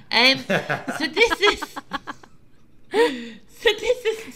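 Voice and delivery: laughing through nausea; slow, gagging restarts; dry heaving. Real, not acted. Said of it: "I feel a bit nauseous".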